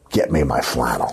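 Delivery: big theatrical, over-dramatic delivery. Retelling a scene, playing Burt Reynolds: imitating a dramatic line delivery. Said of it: "real dramatically".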